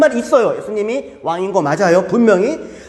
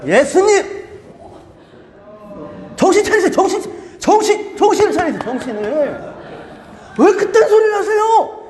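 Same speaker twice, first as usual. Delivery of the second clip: exasperated rebuke; 9 semitones higher than usual. Acted. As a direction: shake sense into him. Peter rebuking Jesus, acted.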